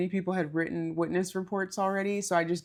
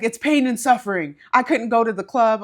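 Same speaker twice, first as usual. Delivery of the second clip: mock indignant; 5 semitones higher, 11 dB louder than usual. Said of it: "He's like".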